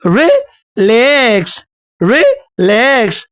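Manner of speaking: light "रि", stretched "लैक्स"; iambic stress. Shown as a demonstration. Teacher repeats the iamb example, unstressed then stressed. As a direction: drag out the second syllable of रिलैक्स. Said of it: "पहले जो है वो unstress हो और बाद में stress".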